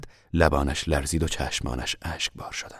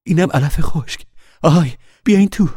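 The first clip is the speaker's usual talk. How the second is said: louder, higher happy shout; calling out; 11 semitones higher, 8 dB louder than usual. A narrator's reading. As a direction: call them inside. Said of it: "فریاد کشید".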